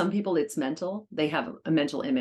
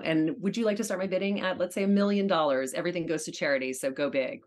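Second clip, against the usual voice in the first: auctioneer voice; 3 semitones higher than usual. Shown as a demonstration. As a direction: open the auction like a poised charity auctioneer. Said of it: "give us a tidbit of your auctioneer voice".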